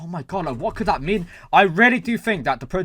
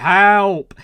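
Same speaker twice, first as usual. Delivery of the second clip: loud shouted "Help!"; mock shout for help; imitated shout; 5 semitones higher, 10 dB louder than usual. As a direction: yell "Help!" as if calling for rescue. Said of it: "like, shouting".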